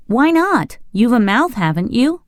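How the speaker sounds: put-on boy's voice. A narrator's reading. Boy challenges the Scarecrow.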